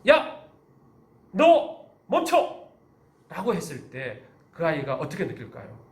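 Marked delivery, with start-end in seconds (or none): 0.1-2.7 sharp, high shout to stop a pupil; louder teacher's command. Acted. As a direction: raise the voice in an abrupt, drawn-out order. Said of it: "조금 더 큰 소리로".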